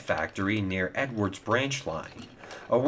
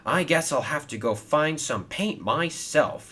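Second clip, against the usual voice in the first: bold; 6 semitones higher than usual. A narrator's reading. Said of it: "he said boldly".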